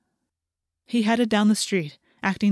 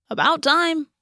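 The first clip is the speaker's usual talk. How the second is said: a higher-pitched jab at a latecomer; mock impatience; 8 semitones higher, 4 dB louder, slower than usual. A narrator's reading. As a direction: complain pointedly, pitched up. Marco mock-scolds his late friend.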